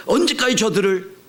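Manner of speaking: 높고 크게 울부짖듯 호소; 부르짖는 기도. Retold or imitated. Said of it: "라고 막 부르짖습니다". (높은 목소리로 간절히 부르짖듯)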